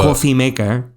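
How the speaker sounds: English said with a Spanish accent; imitated Costa Rican accent; quick Spanish accent. Shown as a demonstration. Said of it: "in a quick Spanish accent".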